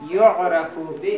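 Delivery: slow, drawn-out dictation for note-takers; measured classroom dictation, word by word. Shown as a demonstration. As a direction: stretch each word out for students writing it down. Dictating Arabic for students to write.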